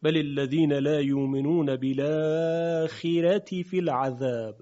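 measured recitation with long held vowels; teacher's sustained, even-toned Quranic reading. Shown as a demonstration. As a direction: recite the verse in tajweed, drawing out the madd.

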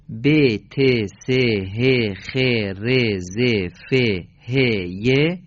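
ب، ت، س said the Persian way, with a short e sound; Persian letter names. Shown as a demonstration. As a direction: recite ب، ت as be, te, slowly and clearly. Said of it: "دوازده اسم تفاوت دارد". (نام حروف با تلفظ فارسی، شمرده)

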